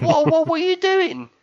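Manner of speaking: high-pitched, startled questioning; acted alarmed protest. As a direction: re-enact panicking at the missus. Re-enacts alarm at wife throwing headset.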